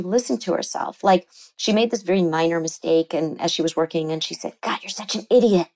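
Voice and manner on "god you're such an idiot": a hint of a sneering inner critic; mildly mock the cruel voice in her head; harsh self-critical tone. Patient berating herself over a minor mistake, lightly sneering. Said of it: "just horrible tone to herself".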